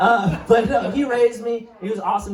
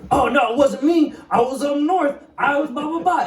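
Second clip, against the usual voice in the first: nervous denial; 9 semitones higher than usual. Retold or imitated. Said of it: "immediately he was like".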